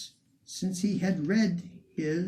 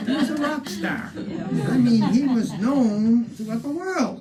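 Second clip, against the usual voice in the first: laughing; 7 semitones higher, 7 dB louder than usual. Real, not acted. Guide laughing, excited about Whittier.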